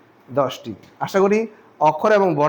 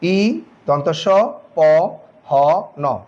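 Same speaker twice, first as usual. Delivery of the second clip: spelling out letters; much slower than usual. Shown as a demonstration. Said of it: "বর্ণ কয়টি?".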